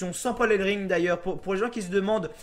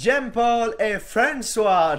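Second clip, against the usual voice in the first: put-on American accent; 2 semitones higher, 6 dB louder than usual. Retelling how Jojo announced French names: Jojo's American accent on names. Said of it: "Jojo avec son accent ... l'accent américain pour dire les noms français".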